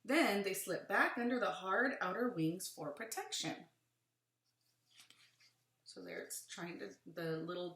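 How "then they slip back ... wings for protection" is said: put-on reading to children. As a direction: lively, clear read-aloud. Reads book aloud to children.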